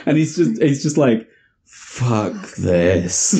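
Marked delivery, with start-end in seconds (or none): 1.7-3.4 much lower, fed-up grumble. Retold or imitated. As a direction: mutter it, totally done. Santa fed up.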